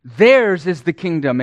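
Theirs hit hard and loud at the start; stress on Theirs. Shown as a demonstration. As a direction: lean on "Theirs", then let the rest fall. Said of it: "That pronoun is in the emphatic position".

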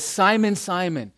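"Simon, Simon" urged, the first pitched high and the second falling; emphatic repetition. Acted. Jesus warns Peter, urgent emphasis on "Simon, Simon". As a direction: press the name "Simon" twice, starting high. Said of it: "repetition for emphasis".

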